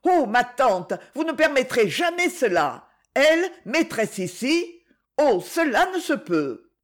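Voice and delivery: a touch of fright, understated; dismayed protest. Acted. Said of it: "dans un geste d'effroi".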